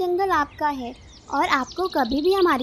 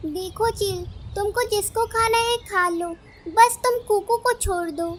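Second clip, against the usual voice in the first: lightly acted plea, rising higher; a touch of earnest bargaining; pleading bird; 5 semitones higher than usual. Bird offers a trade for Kuku's release, mildly pleading.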